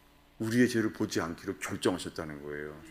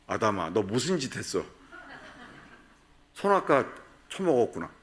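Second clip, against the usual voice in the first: mock scolding; 2 semitones higher than usual. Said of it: "나 같았으면은".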